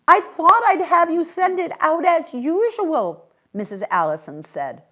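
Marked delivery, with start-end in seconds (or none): 0.1-3.3 speaking up. A narrator's reading. Raised voice on phone.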